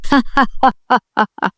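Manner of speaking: hearty laugh; man laughing out, amused; an open burst of laughter; loud laugh. A narrator's reading. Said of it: "سيف ضحك بصوت عالي".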